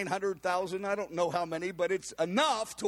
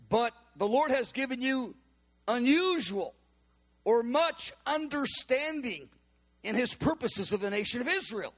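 higher, ringing prophetic declaration; prophesying woman; 5 semitones higher, 3 dB louder than usual. Retold or imitated. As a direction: deliver it as a bold word from the Lord. Woman continues prophecy to Bob.

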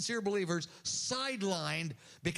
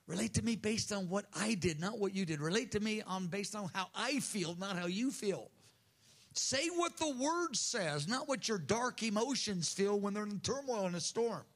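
gentle voice of the Lord. Acted. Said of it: "And Lord says".

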